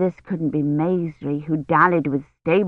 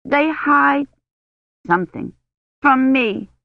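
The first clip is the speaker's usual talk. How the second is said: a hint of a higher maid's voice; a hint of a whining peasant girl; lightly voiced servant girl; 6 semitones higher than usual. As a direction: pitch the maid up a little, plaintive. Maid answers the lady.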